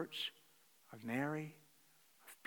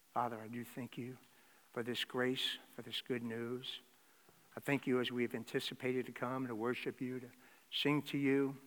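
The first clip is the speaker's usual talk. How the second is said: prayer; 4 dB louder than usual. Acted. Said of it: "Join me in prayer".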